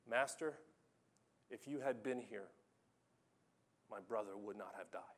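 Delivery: soft, sinking, broken-hearted plea; quiet grieving sister, voice dropping away; weeping lament. Acted. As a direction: let the words fade into tears, quietly. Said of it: "Mary's weeping".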